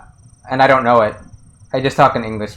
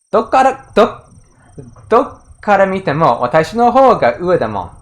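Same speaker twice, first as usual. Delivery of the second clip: ruder smug quote; 3 semitones higher than usual. Retold or imitated. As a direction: sneer it like a rude rival girl. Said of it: "it's, like, a little ruder".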